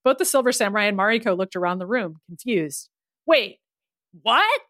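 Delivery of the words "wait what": surprised yell. Acted. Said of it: "Maddie yelled".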